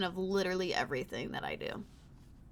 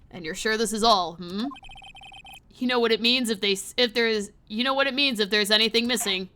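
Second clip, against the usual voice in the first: lightly deepened intimidating voice; a touch of menace, kept low; dark scary chief; 6 dB louder than usual. Acted. Police chief questioning an officer about anything missing, mildly menacing. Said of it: "we'll just do dark and deep, scary voice".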